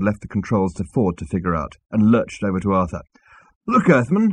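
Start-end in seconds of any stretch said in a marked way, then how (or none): 3.7-4.3 high-pitched angry address. A narrator's reading. Zaphod lurching over to Arthur, angry. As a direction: round on him angrily. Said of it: "he said angrily".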